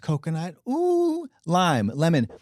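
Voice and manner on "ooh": high swooning ooh. Acted. Swooning exclaim.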